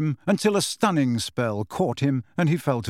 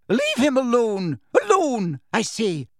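commanding shout; 9 semitones higher than usual. A narrator's reading. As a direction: order them off Hagrid. McGonagall shouting at attackers.

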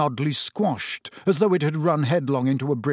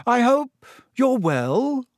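high, slow and self-important; pompous prefect voice, pitched high; 9 semitones higher, 4 dB louder, slower than usual. A narrator's reading. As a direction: talk down like a little mayor. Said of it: "said Percy pompously".

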